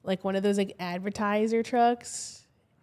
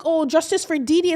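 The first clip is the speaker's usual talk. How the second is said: mocking commenters; 7 semitones higher, 5 dB louder than usual. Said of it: "they're like".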